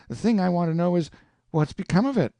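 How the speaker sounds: fast, high, insistent question; urgent demand. Acted. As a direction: press him for an answer. Huck demands an answer.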